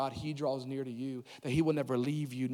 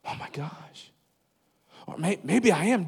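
spiral into fake alarm; mock panic; 3 semitones higher, 6 dB louder than usual. Preacher acting out a worried believer panicking, breathless then high.

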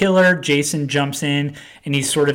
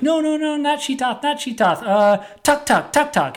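much higher, frantic pleading; panicked protest; 13 semitones higher than usual. Retold or imitated. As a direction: beg them to pick the other word. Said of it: "And Guy's like".

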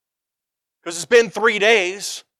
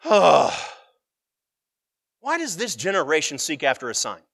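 Jesus sighing over a generation wanting signs; deep sigh; 4 semitones lower than usual. Acted. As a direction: sigh deeply before you ask, like a weary teacher. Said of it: "he sighed deeply".

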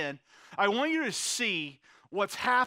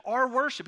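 "our" hit higher and harder as a correction; stress on our; 4 semitones higher than usual. Real, not acted. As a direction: lean on "our" to include yourself. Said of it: "your worship".

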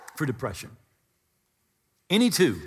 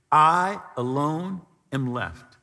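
mild hopeless murmur; lonely lament; slower than usual. Retold or imitated. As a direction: let it sink, weary and alone. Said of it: "He's, he's lonely".

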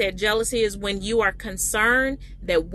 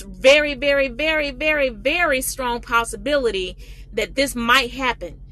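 rising emphasis; 3 semitones higher, 3 dB louder than usual. Real, not acted. Preacher building emphasis.

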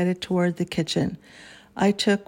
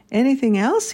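grinning; 5 semitones higher, 8 dB louder than usual. A narrator's reading. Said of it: "he asked with a grinning face".

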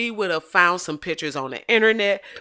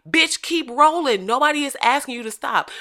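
exasperated; 9 semitones higher, 6 dB louder than usual. Real, not acted. Scolding the cyclist.

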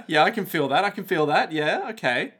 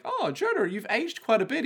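high, bright mock Australian ocker voice; Australian accent; 8 semitones higher than usual. Mock Australian to Jojo, hammed-up accent. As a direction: ham up an Aussie mate greeting. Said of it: "We did Australian Jojo".

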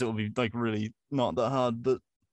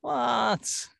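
high-pitched, incredulous what; astonished; 12 semitones higher than usual. Real, not acted. Guest can't believe the host's first interviewee, astonished. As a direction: squeak it out in disbelief. Reacting again to surprising news.

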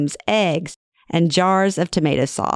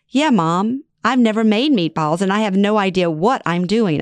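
sweet and teary; 4 semitones higher than usual. Retold or imitated. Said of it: "I say sweetly with tears in my voice".

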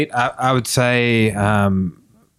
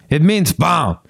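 mock aggressive snap, a bit higher; aggressive retort; 4 semitones higher, slower than usual. Gym girl answering what the name means, mock aggressive. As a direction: fire the answer off as a curt retort. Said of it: "real aggressively".

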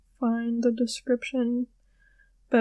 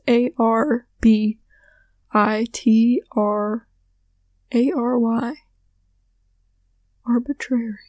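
slow spelling. Shown as a demonstration. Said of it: "I will spell it for you".

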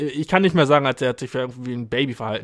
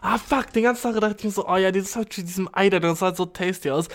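gespielt enttäuscht; 4 semitones higher, 4 dB quieter than usual. Pretend. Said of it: "Ich bin so".

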